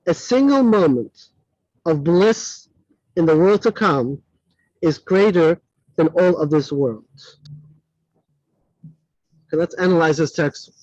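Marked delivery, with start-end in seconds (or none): none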